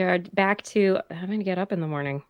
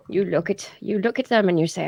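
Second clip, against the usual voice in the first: normal talking voice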